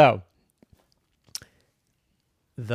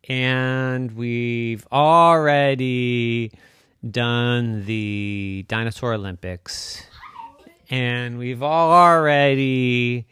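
lightly voiced bored dinosaur; 6 dB louder, slower than usual. Stegosaurus listing.

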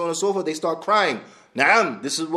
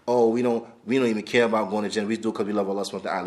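mocking; 4 semitones lower, faster than usual. Teacher parodying Sufis who say they don't care for Jannah, mocking. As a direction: parody their claim quickly and dismissively.

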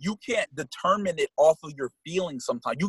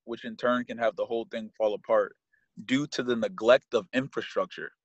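measured, earnest read-aloud; steady inspirational quote reading; 7 semitones lower than usual. Real, not acted. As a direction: read it out evenly, lower than lively chat.

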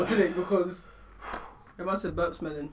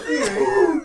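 laughing; 5 semitones higher than usual. Real, not acted. Friends cracking up at a joke.

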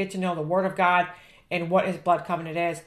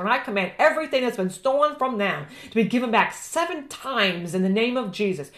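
fervent, rising prayer; roaring rallying speech; 2 semitones higher than usual. Acted. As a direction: pray it like marching orders. Fervent prayer building to command.

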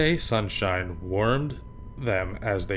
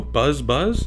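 loud buzzing; bee buzz; 4 semitones higher, 5 dB louder than usual. Acted. Imitating a bee.

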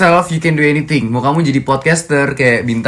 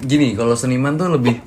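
talking through a hiccup. Real, not acted. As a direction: hiccups breaking the words. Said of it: "cegukan, Mas".

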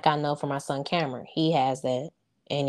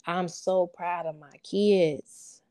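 holding back tears; 4 dB louder, slower than usual. Real, not acted. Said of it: "I'm trying not to cry".

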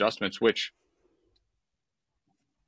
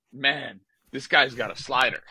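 put-on higher retelling of the teammate's line, accent mostly dropped; teammate quoted incredulously; 4 semitones higher than usual. Irritated player relaying his teammate's remark, in higher-pitched disbelief. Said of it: "I've got a guy who's, like, telling me".

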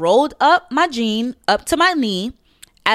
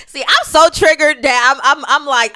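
flustered stutter; 5 semitones higher, 3 dB louder than usual. Real, not acted. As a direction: repeat the words while flustered. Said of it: "I'm stuttering".

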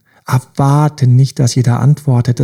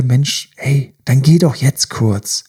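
understanding parent; slower than usual. Retold or imitated. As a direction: gently nudge yourself like a kind father. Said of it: "Wie so ein verständnisvoller Vater oder Mutter sagen würde". (sanft und verständnisvoll wie ein Vater)

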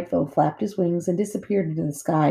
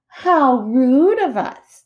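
mock-polite sister bear; 9 semitones higher, 7 dB louder, much slower than usual. A narrator's reading.

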